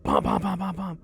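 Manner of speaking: rapid string of mock knocks; imitated door knocking. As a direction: pound out the bams like knocking.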